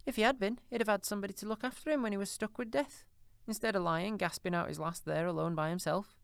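put-on high, coarse old charwoman, brazen; a bold thieving charwoman, defiant. A narrator's reading. Charwoman scorns dead man.

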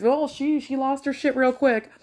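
high, giggly mock commentary; amused onlooker. Onlookers on her losing it quick, amused. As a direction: pitch it up, tickled.

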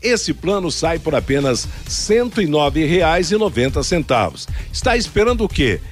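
upbeat radio ad read; hard sell ad. Acted.

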